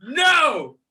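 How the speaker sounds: high, worked-up comic tirade; furious rant cracking into laughter; so mad. Real, not acted. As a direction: reject it in drawn-out, wailing outrage. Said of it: "I'm so mad".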